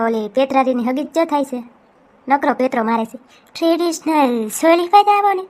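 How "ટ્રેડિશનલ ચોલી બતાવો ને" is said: mock prim shop request, a touch higher; lightly imitating her friend asking the shopkeeper; mimicking her friend. Teasing friend mimics how she asked for a choli, lightly higher. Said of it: "જાણે આપણે કંઈ બોલતા જ ના આવડે".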